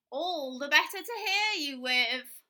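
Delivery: loud, slow sly wolf; barely hiding the wolf; sly wolf granny. Acted.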